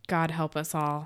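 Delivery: low, soft near-whisper; hushed dread. Retold or imitated. Quoting the eve of the Ascension, hushed and ominous. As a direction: whisper it like a grim prayer. Hushed quote of dire line.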